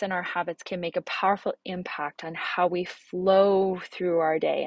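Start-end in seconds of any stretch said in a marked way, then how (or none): 2.8-4.6 "flow" drawn out slowly and leaned on; stress on flow. Shown as a demonstration. Telling parents to flow through their day, "flow" stretched slowly. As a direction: linger on "flow" so it glides. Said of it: "I really emphasize the word flow".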